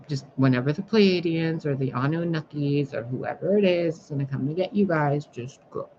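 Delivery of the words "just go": 1 whisper. Real, not acted. Quiet aside to humans.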